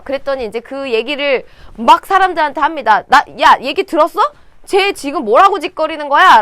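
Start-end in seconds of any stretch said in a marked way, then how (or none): 3.1-6.4 loud, indignant complaint; angry outburst. Acted. David fuming to the soldiers about Goliath, loud and angry. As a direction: blurt it out, fuming. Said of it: "승질이 나서".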